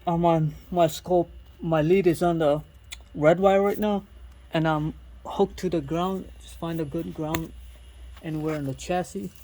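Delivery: talking while lying under a car; strained voice from lying under a car. Real, not acted. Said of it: "I'm under the car".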